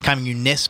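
"Communist" said com-mu-niss, no final T; dialect pronunciation. Shown as a demonstration. Reader showing how the book spells it, "Communist" without final T. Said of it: "by the way, C O M M U N I S S".

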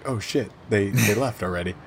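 soft, low understated letdown; quiet, lightly acted dismay; mom's muted realization. Mom finds the kids already gone, low and understated. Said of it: "she just goes like".

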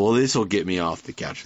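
quick, casual fan voice, lightly voiced; brushing it off like a drunk fan; mock American fan. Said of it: "They go".

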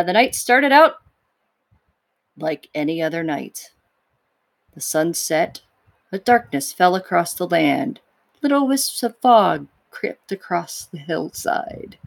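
hushed, dramatic storybook narration; epic fantasy narrator. Acted. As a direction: spin it like an ominous fantasy tale. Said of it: "She makes it sound way more dramatic".

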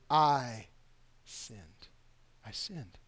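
soft, low admission of sin; soft low confession; quiet confession. Shown as a demonstration. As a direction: say it quietly and plainly. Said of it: "Say the word".

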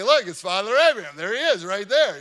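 put-on excited child. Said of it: "I'm like".

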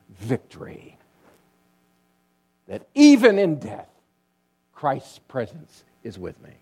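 hushed start, then a loud rise on even in death, and back down; a dying martyr's triumph, swelling and fading; preached cry of victory. Retold or imitated. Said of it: "like this".

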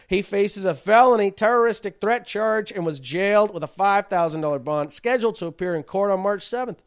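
reciting a news article, pitch lifted; news read. Real, not acted. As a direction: read the report aloud to the audience. Reads out a news report.

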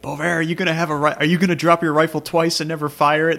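loud, high mock taunt; mocking a clumsy Frenchman; teasing buddy. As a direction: rib him loudly about the rifle. Buddy teasing him about his rifle.

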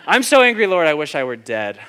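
mock furious wail to the Lord; angry outburst. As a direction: cry it out at God like a sulking Jonah. Pastor acting his own complaint.

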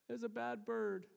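put-on high little-boy voice, worried; Joshua. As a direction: imitate a small child reporting a scare. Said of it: "He goes".

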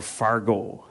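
put-on long-O northern Fargo accent; Minnesota accent. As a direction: stretch the final O like a Minnesotan. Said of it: "the O's get a lot longer".

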